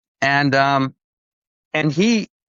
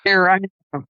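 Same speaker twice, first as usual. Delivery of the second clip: mock grand reveal; 7 semitones higher, 3 dB louder, faster than usual. Jim poses as Christ.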